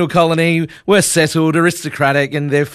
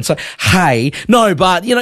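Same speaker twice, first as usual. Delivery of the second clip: usual speaking voice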